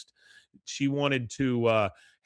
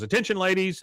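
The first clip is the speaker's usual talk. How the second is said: coach announcing; 7 semitones higher, 4 dB louder, faster than usual. Retold or imitated. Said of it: "She goes".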